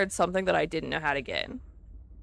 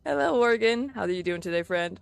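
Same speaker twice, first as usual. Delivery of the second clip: voice cracking; 3 dB louder than usual. Real, not acted. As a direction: voice cracks mid-greeting, pitch breaking. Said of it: "Oh, that voice crack".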